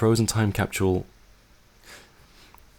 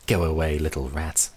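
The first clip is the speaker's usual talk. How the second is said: ordinary delivery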